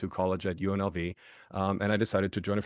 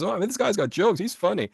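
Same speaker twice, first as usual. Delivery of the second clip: much higher, louder mock amusement; amused imitation; 12 semitones higher, 4 dB louder than usual. Fraternity brother thinks the German answer is a joke, amused. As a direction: imitate a guy tickled by a joke, pitched way up.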